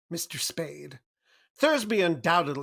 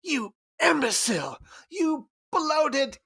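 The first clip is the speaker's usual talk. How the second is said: furious berating. Acted. Cairo berating Gutman over failure.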